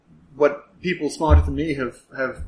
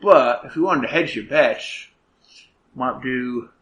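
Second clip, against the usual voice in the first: musing inspector. Acted. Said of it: "Inspector goes".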